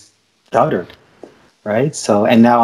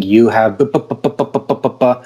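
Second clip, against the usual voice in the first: repeating bu-bu-bu like a blocked stutterer; acted stutter. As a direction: act out a stuck stutter on bu. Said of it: "he's stuttering".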